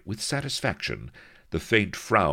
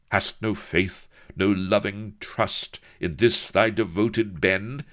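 higher, pleading tender rebuke; fond reproach; 7 semitones higher, 5 dB louder than usual. A narrator's reading. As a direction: gently chide your sweetheart. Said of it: "he continued in fond reproach".

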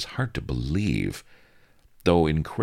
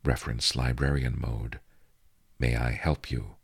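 a slightly lower, calm computer voice; 3 dB quieter than usual. Acted. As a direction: speak low and even, like a library program. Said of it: "A low, calm voice intoned".

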